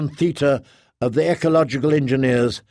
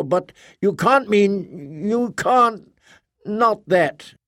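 much higher, incredulous and rising; a Guardian who cannot believe it, pitched up; Kay's voice; 6 semitones higher than usual. A narrator's reading. Kay in disbelief.

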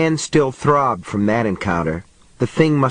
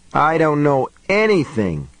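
higher-pitched, mild moan of protest; 4 semitones higher than usual. A narrator's reading. Mary protesting to the voice in her head, mildly moaning. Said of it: "she moaned".

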